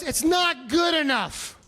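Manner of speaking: old nurse scolding the patient, mock stern; angry nurse. Ornery old nurse telling patient it's not good enough, stern and slow. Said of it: "She was pissed for some reason".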